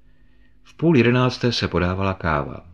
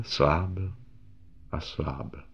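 much softer, dying into silence; fading away; 7 dB quieter, much slower than usual. Shown as a demonstration. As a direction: let the word fade out.

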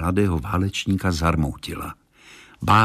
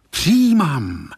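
firm, higher-pitched cry of acceptance; resolute exclamation; 7 semitones higher, 3 dB louder, slower than usual. A narrator's reading. Young man accepting the transformation, resolutely calling out. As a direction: call it out decisively. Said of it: "zvolal mladík rozhodně".

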